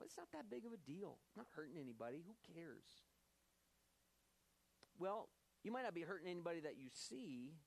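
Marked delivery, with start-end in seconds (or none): 0.0-3.0 lightly acted shrug, trailing off softly; mock dismissive self-talk. Sinner minimizing sin to himself, lightly acted dismissiveness. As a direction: brush it off lightly, as if excusing yourself. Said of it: "You think to yourself".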